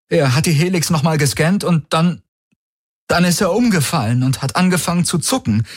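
a man faking shock at a friend's collapse; panicked young man. Acted. Valyr retells the collapse. (gespielte Panik, höher und hastig)

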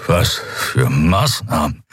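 slow, faint, exhausted; barely holding himself up; weak question. A narrator's reading. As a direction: prisoner asking weakly, slow and drained. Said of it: "konnte sich nur mit Mühe aufrecht halten".

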